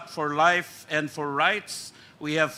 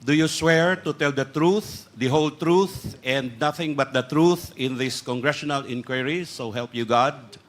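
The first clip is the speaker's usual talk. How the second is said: formal, steady oath recitation; rote court oath; 2 semitones lower than usual. Real, not acted. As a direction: read the oath out firmly, by rote. Administering oath to resource persons.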